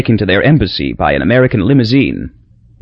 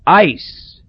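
lightly voiced, higher dying murmur; a hint of a fading old man; dying Papa; 7 semitones higher than usual. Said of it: "he passed out again".

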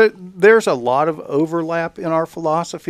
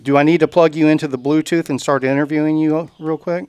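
loud, raised voice on speakerphone; calling out; 4 dB louder than usual. Real, not acted. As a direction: project over the phone. Talking to speakerphone caller.

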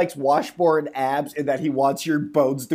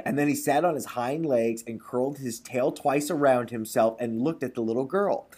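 measured storybook reading; lightly performed storyteller; story narration; 4 semitones lower, 7 dB quieter than usual. A narrator's reading. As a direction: read it like a folk tale aloud. Reads a folk tale.

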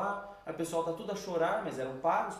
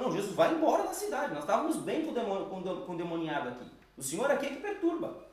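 loud townspeople; 2 semitones higher, 3 dB louder than usual. Retold or imitated. Townspeople send Jesus away.

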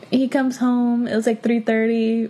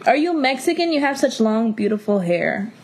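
mocking imitation. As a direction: parody the question with exaggerated curiosity. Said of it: "what the fuck, bitch?".

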